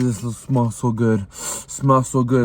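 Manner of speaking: slow, savoring delight; savoring a smell. Real, not acted. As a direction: linger as if smelling food. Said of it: "It's all steamy".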